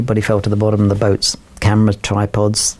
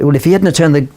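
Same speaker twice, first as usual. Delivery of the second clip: put-on old lady; 5 semitones higher than usual.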